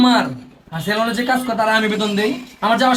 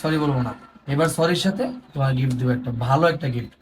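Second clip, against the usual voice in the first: low, softened promise to make amends; coaxing apology; 5 semitones lower than usual. Acted. Husband offers upset wife a gift to make up, coaxing. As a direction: placate gently in a lowered voice.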